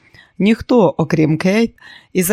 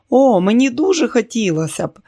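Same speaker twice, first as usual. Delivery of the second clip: put-on higher-pitched, keen young guest's reply; eager exclamation; 6 semitones higher, 3 dB louder than usual. A narrator's reading. Lucy jumps at the boat ride invitation, eager exclamation. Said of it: "вигукнула Люсі".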